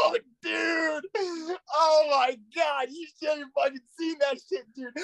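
high-pitched, thrilled outburst; gleeful disbelief. Real, not acted. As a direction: crow with delight at the gotcha. Gleeful reaction to courtroom gotcha.

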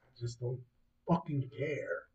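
soft, sincere admission; most sincere tone. Real, not acted. Host stressing his indifference to the royal family, soft and sincere. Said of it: "I say this in the most sincere tone".

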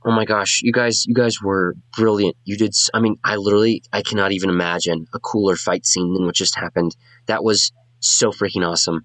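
gushing bard. Acted. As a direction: gush over the fight like a starstruck fan.

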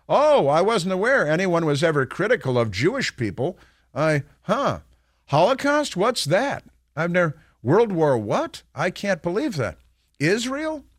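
hammed-up feigned ignorance, high squeaks on questions; mock clueless Omar. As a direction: play dumb, sarcastically innocent. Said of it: "lets her give this ridiculous, fraudulent, embarrassing answer".

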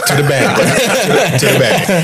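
laughing. Real, not acted. Laughing at selling out.

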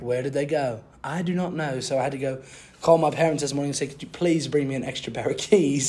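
put-on British accent. Podcaster recaps his week as a British man, mock British accent. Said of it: "I'll speak in a British accent".

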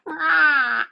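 put-on baby tiger roar. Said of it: "Mine's like".

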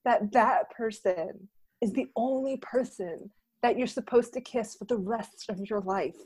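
quiet, tender lisping read; hushed, earnest romantic monologue; Drew Barrymore lisp. Acted. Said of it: "Drew Barrymore's is a bit of a lisp".

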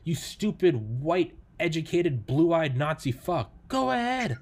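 mock-hurling slurs at himself, drawn out; mock insult. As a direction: spit out a pretend troll's insults at yourself, slowly. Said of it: "Say, say shit against me".

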